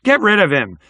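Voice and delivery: high, loud heckle; irate onlooker yelling from the seats; hostile crowd shout. A narrator's reading. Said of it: "some murmurings and scattered shouts".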